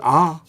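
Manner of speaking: "arches" broken into "ar", long pause, "ches"; pause mid-word. Retold or imitated. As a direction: stretch the first half of "arches", then stop before finishing. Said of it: "he pauses halfway through the word".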